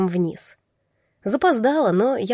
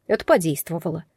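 usual speaking voice

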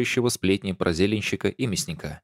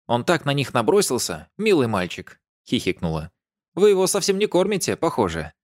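put-on high, gushing old neighbour; lightly voiced chatty old lady; 5 semitones higher than usual. A narrator's reading. (восторженная старушка)

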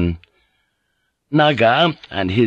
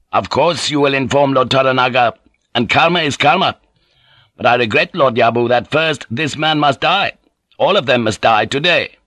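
higher, resolute character voice; unyielding young lord Naga; 4 semitones higher than usual. Acted. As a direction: pronounce a death sentence, unmoved.

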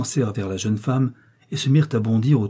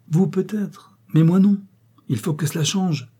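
stern rebuke; 8 semitones higher than usual. Acted. Husband refusing his wife's excuse, stern raised rebuke. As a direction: snap back, refusing her excuse.

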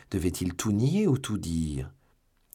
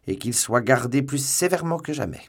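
loud, stern order, pitch raised; commanding order; 6 semitones higher, 5 dB louder than usual. A narrator's reading. Commissioner orders stricter guard on the prisoners, commanding. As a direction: press the order home forcefully.

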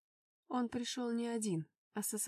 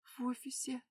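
croaked; 2 semitones higher, 4 dB quieter than usual. Acted. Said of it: "прохрипела я".

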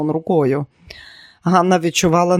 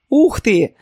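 half-voiced exclamation; 6 semitones higher, 5 dB louder than usual. A narrator's reading. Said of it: "напівголосно вигукнула Нілі".

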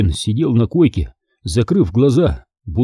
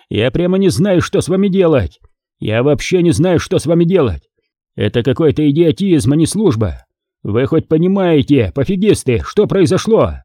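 furious, raised tirade; yelling; 5 semitones higher than usual. Acted. Commander yells at his officers after weapons vanish. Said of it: "Он так кричал".

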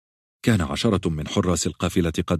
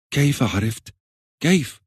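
trembling; 8 semitones higher, slower than usual. A narrator's reading. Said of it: "مرتجفة".

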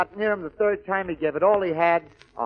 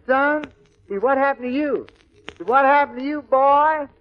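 high character voice; 7 semitones higher, 3 dB louder than usual. Acted. Honeysuckle voiced in joke.

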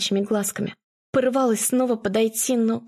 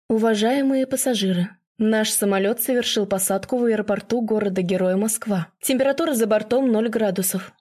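airport announcement. Acted. Landing announcement on the plane.

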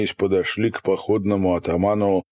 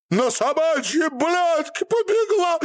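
raging curse. A narrator's reading. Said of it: "вослед кричал ей".

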